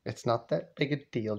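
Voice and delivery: soft, low-key reassurance; imitated son's muted plea; hushed placating. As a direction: play it down quietly, under the breath. Dad hushedly placates his mother.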